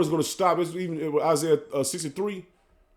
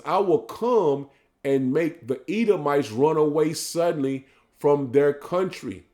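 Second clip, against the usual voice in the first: measured, drawn-out scripture reading; solemn sermon reading; slow preaching scripture read; slower than usual. Acted. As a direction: lay each phrase out slowly like a preacher.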